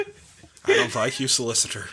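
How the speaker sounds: put-on a light Irish accent, menacing; mock Irish bank robber line. Imitating the Irish bank robber to his co-host in a light Irish accent. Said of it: "that one Irish bank robber".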